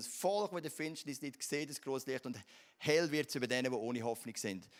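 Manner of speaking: firm declaration, falling at phrase ends; declarative statement. Shown as a demonstration. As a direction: state it as settled fact. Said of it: "Das ist eine Aussage".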